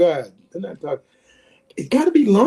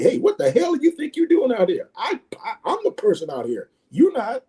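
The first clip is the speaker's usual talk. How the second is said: higher-pitched mock confrontation; retold nasty outburst; 5 semitones higher than usual. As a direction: imitate a teammate getting nasty. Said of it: "then he get nasty".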